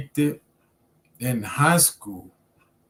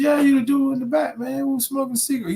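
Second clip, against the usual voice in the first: retold excited recognition; faster than usual.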